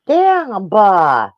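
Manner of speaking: high, loud disgusted curse; disgusted exclamation. Retold or imitated. Retelling his reaction to dead cows, disgusted curse. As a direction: spit out his frustration.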